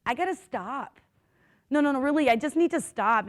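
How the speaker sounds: begging. Retold or imitated. Labouring mother to her midwife, retold begging. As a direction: plead lightly, as if recounting it. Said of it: "I am begging her to".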